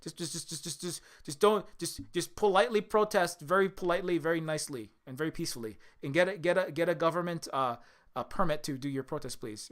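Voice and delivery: lightly voiced pleading president, quick at first; a hint of a pleading Biden; mock politician plea. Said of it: "Biden has to come out and go".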